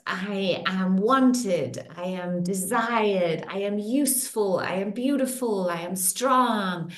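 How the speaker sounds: calm, measured affirmation. Acted. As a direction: state it as settled truth. Leads repeated beliefs.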